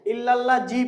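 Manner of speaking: hard Bengali 'j' in জি; common mispronunciation. Shown as a demonstration. Teacher showing the learners' mistake, mispronounced. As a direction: say জি with a j, split off the word. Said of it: "আমরা এখানে যে ভুলটা করি".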